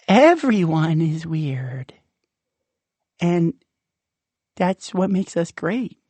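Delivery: whispered, slow realization; awed whisper. Acted. Rumpel realizes to himself, slow whisper. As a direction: breathe it out in wonder.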